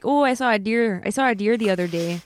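light, casual Canadian accent. Shown as a demonstration. Guest obliging the host's request, light Canadian accent. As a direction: toss off a mild Canadian accent, friendly and easy. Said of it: "Can you do a Canadian accent?".

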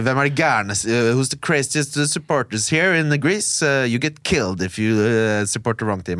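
put-on slow English with a light Greek accent; slow, lightly imitated Greek-accented English. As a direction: imitate a Greek taxi driver's English, slowly. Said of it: "det er sånn aksent han har".

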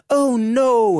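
high, loud panicked "Oh no!"; hammed-up damsel shriek; mock cry of alarm. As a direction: squeal it like a damsel in distress. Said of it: "der råber".

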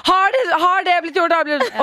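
lightly hammed-up stressed organiser; pushy checker. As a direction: hurry people along, checking up. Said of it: "og dytte og si sånn".

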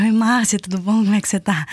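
light Brazilian Portuguese greeting; Brazilian accent. Retold or imitated. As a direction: put on a Brazilian accent to pass as local. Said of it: "Isto tudo a falar em brasileiro".

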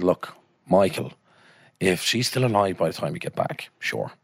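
put-on doctor in a D4 accent; Dublin 4 accent. Doctor humouring Michael about the Guinness, Dublin 4 accent. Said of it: "I just gave him a D four accent".

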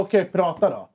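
flat offhand okay; bored reply to the teacher; uninterested. Retold or imitated. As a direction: brush him off with a laugh. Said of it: "jag var ändå fett ointresserad".

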